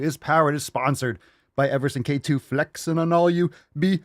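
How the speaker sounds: punchy, rolling announcer patter; hyped show intro. Acted. Host opening the Daily Swole episode, hyped intro. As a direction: rattle off the titles like a hype man.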